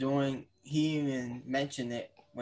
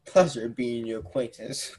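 Doctor Evil; 2 semitones lower than usual. Pretend. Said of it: "You got Doctor Evil?".

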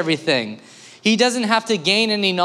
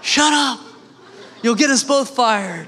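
lion hissing; 6 semitones higher than usual. Retold or imitated. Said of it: "And the lion says".

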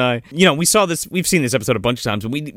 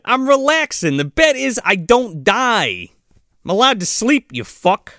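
mock Tommy voice; 6 semitones higher than usual. Retelling Tommy's lines.

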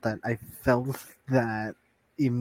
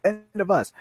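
high, raised-voice disbelief; pitched-up mocking repeat; incredulous echo; 7 semitones higher, 5 dB louder than usual. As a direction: throw the quote back, incredulous. Interrupts to challenge her quoted words.

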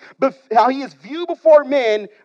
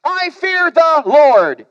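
drawn-out self-assured declaration; slow pious boast; 6 semitones higher, 5 dB louder, much slower than usual. Acted. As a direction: say it slowly, full of pride. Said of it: "he says".

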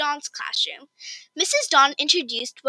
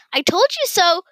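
a light told-you-so, a bit higher and brighter; mild exclaim; 6 semitones higher, 4 dB louder than usual. Acted. Best friend Cass on the bus, a light told-you-so. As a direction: say it like a friend proven right. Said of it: "Cass exclaimed".

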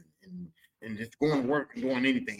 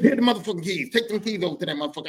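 higher, louder dad barking orders; dad ordering; 5 semitones higher, 4 dB louder, faster than usual. Retold or imitated. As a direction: boss the kid around. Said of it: "My dad goes".

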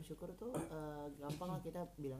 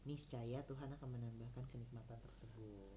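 mock religious preacher; 5 semitones lower, 6 dB quieter than usual. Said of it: "Pengajian apa gimana nih".

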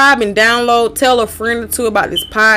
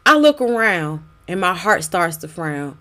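spoken word poem; 2 semitones higher than usual. Acted. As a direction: perform it as a pleading poem.

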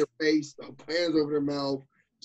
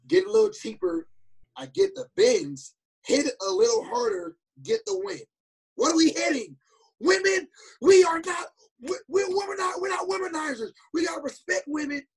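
much higher, hammed-up Southern coach preaching to the team; mock Southern coach; 14 semitones higher than usual. Imitating the coach lecturing players in a high Southern accent. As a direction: parody the coach explaining the lyrics earnestly. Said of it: "He was like, and then it was like".

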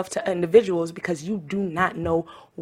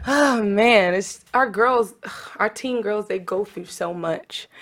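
getting emotional; 3 semitones higher, slower than usual. Real, not acted. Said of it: "sorry, I'm getting emotional".

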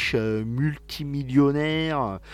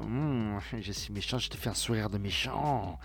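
cartoon villain voice; 5 semitones lower, 11 dB quieter than usual. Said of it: "c'est une caricature de méchant".

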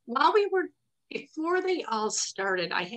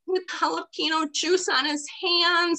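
laugh-crying; 8 semitones higher, 5 dB louder, slower than usual. Real, not acted. Laughing while retelling.

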